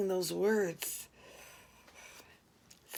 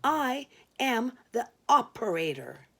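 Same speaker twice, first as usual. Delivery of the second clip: stiff, formal operator tone; a touch of prim formality. Retold or imitated. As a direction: state it like official phone staff. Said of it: "I said formally".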